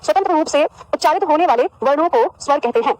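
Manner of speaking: measured dictating voice; dictation. Shown as a demonstration. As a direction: spell it out so they can write it down. Dictating a definition again.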